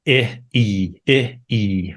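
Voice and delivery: short lax "I" against long tense "E"; vowel contrast. Shown as a demonstration. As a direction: alternate "I" as in sit with "E" as in seat. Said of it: "the important differences of".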